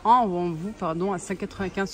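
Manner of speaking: numb mouth after dental work; talking with a numb mouth; numb from the dentist. Real, not acted. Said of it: "je sors de chez le dentiste".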